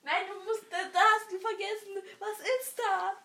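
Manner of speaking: high squeaky voice. Acted. Playing the dog.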